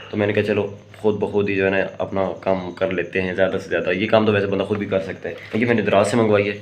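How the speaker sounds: usual speaking voice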